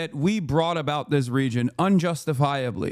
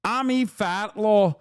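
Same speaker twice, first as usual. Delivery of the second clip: mock Middle Eastern accent; 4 semitones higher, slower than usual. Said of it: "organic Middle Eastern accent".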